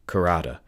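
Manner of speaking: Karada quick and light, run together; said fast. Shown as a demonstration. Retta correcting Tobias on the name, said quickly. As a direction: show how Karada should sound, fast. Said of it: "just Karata, but fast".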